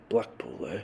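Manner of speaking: put-on mild Yorkshire accent, as a kindly innkeeper. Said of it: "he says in a charmingly rugged Yorkshire accent".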